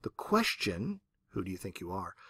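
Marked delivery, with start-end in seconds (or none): 1.3-2.2 distant echo. Retold or imitated. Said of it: "carried over the pasture ... returned".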